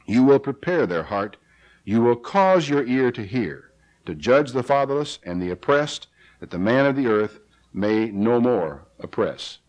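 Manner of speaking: measured reading of a psalm; scripture reading. Acted. Preacher reading the psalm to his congregation, measured. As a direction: read the verses out steadily to the flock.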